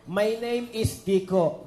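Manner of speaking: slow teaching demo of "My name is Kiko"; model sentence. Shown as a demonstration. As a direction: say it slowly for someone to repeat. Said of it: "sasabihin mo". (mabagal na halimbawang gagayahin)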